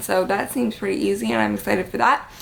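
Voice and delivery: slight lisp from Invisalign aligners. Real, not acted. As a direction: talk with a mild lisp. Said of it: "suffer through me and my lisp with my Invisalign".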